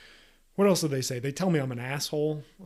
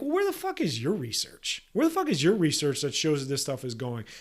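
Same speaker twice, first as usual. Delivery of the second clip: angry retort; 4 dB louder than usual. Retold or imitated. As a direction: fire the question back at the critics. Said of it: "And I'm like".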